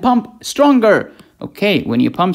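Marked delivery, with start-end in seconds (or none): 0.0-1.1 high, slow, effortful push; acted strain, stretched and higher; straining ventricle. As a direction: heave the words out like hard pumping.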